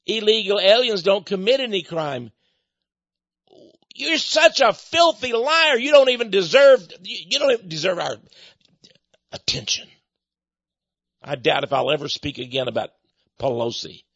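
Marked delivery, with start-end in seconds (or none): 3.9-9.9 angry rebuke. Real, not acted. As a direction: scold her to her face in real anger. Preacher scolding politician directly.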